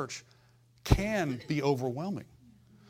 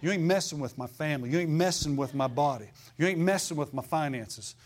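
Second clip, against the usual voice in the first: defiant rebuke. Shown as a demonstration. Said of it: "You say".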